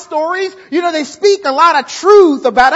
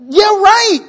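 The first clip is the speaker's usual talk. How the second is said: sarcastic scoff; 6 semitones higher, 7 dB louder than usual. Retold or imitated. Sceptical Sarah scoffs at promise.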